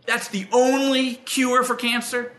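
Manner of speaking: high, slowed disbelief at the offer; a sceptic questioning Carl about the only cure; incredulous. Retold or imitated. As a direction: act like you can't believe what he's telling you. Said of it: "you know, like".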